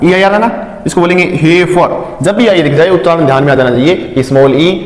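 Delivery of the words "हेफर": हेफर with an "e" vowel, not "ee"; teacher modelling the e in हेफर; short e or long ay. Shown as a demonstration. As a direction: say हेफर carefully as "heh-fer". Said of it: "ए या फिर ए long sound".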